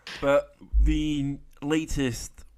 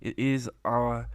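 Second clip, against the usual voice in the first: horror host; 5 dB quieter, slower than usual. Acted. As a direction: greet the ghouls like a creepy host. Spooky Halloween intro voice.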